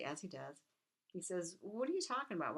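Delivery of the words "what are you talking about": mock exasperation, pitched up at the start; retold anger. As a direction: demand answers like a mildly angry king. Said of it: "He gets angry".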